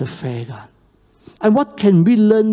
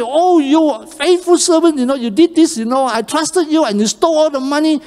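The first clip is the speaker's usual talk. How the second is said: a lightly voiced stern master; accusing master; 7 semitones higher, faster than usual. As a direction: scold the servant who stole. Master confronts thieving servant.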